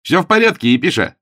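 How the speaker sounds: high, loud cheerful call. A narrator's reading. Augustine reporting success to the bishop, cheerful. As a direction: call out the good news. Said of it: "он услышал веселый голос".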